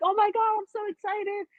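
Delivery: squealed high and bright with excitement; high-pitched excited squeal; retold excitement. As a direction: gush like you just got great news. Retold joy at the park.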